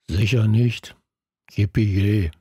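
deadpan, dry and unimpressed; dry sarcasm. A narrator's reading. Kalu mocking the plan, dry deadpan. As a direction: toss it off with dry irony. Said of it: "fügte Kalu trocken hinzu".

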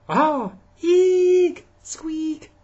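very high, loud squeaking mouse; startled mouse. Acted. The mouse in the wood box squeaks high in fright.

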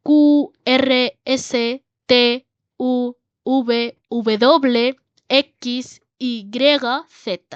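Spanish letter names, each set apart by pauses; slow, separated alphabet demo in Spanish. Shown as a demonstration. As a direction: recite the Spanish alphabet, one letter at a time. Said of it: "আর pronunciation সহ".

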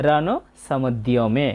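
careful "সমুদ্যমে", sounding i-o after the দ; pronunciation demo. Shown as a demonstration. Teacher showing learners the য-ফলা in "সমুদ্যমে", careful pronunciation. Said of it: "এখানে আমরা স্পষ্ট বুঝতে পারছি".

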